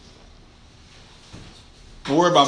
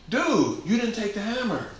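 ordinary talk

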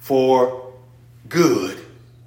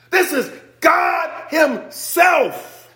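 high, slow, shouted; preaching shout; 12 semitones higher, much slower than usual. Real, not acted. Preacher crying out to the congregation, slow shout.

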